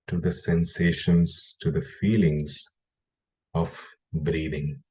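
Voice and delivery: measured guiding voice with long pauses between phrases; guided meditation. Acted. Meditation teacher guiding listeners to notice the breath, guided meditation. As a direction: lead them into the breath, phrase by phrase, unhurried.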